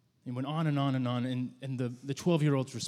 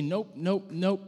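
dismissive refusal; 5 semitones higher, much slower than usual. Pretend. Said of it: "and we say".

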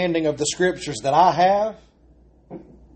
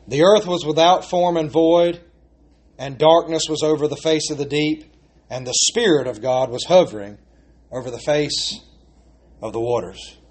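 unhurried reading that fades toward the end; slow reverent reading; 2 semitones lower than usual. Shown as a demonstration. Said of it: "run right through it".

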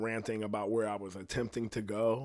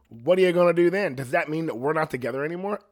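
louder, higher retort in an argument; raised-voice comeback from a retold row; retold challenge; 5 semitones higher, 7 dB louder, faster than usual. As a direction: act out confronting a partner, pushing for an answer. Retelling a relationship argument.

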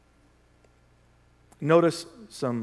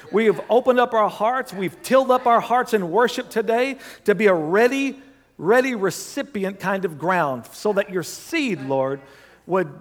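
raised, higher-pitched praying voice; fervent prayer; 4 semitones higher, 3 dB louder than usual. Real, not acted. Preacher thanking the Lord for his word, fervent prayer. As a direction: pray out with real fervor over the congregation.

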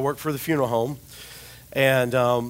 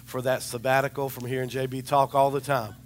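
mock grateful prayer; 3 semitones lower, 5 dB quieter than usual. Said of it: "people in my life that are going".

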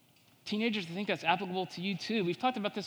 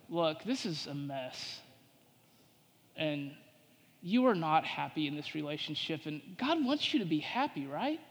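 subtle tempter; 2 semitones lower than usual. Acted. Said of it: "he says something like this".

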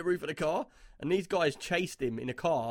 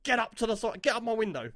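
higher-pitched mock road-rage yell; retold angry shout; 6 semitones higher than usual. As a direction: re-enact losing your temper at a cyclist. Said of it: "I literally went mental at him".

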